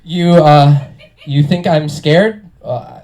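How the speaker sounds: put-on young cop scene reading; earnest amateur cop; bad acting. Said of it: "I was now a young cop".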